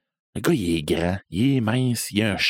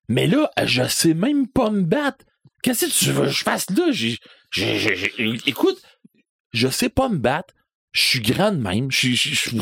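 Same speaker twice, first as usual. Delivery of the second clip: put-on high, stammering, flustered teenager; a high nervous stammer; panicky protest; 5 semitones higher than usual. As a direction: squeak out the excuses in a panic.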